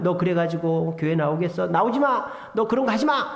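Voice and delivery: mildly stern acted rebuke, rising in pitch; mock scolding. Preacher mimicking the Jesus people wrongly imagine, mock scolding. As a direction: act out a touch of scolding.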